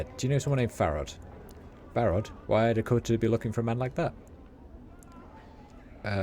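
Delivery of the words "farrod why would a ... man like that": lightly voiced Sigil street accent; rat catcher's accent. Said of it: "it's all written in their accent".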